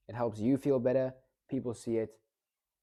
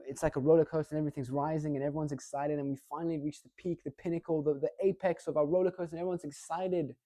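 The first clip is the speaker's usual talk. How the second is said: fast, higher, rising hype; speeding toward the climax, pitch climbing; building excitement; 4 semitones higher, faster than usual. Shown as a demonstration. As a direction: ride up the roller coaster to the peak. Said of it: "we're building up the climax".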